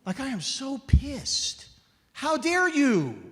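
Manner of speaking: high, loud, slow mock outrage at a card; hammed-up indignant yell; retold fury. Furious at the advice card.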